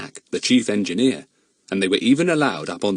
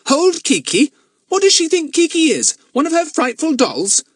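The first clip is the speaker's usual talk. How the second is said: scornful; 5 dB louder than usual. Acted. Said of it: "boy mocks girl".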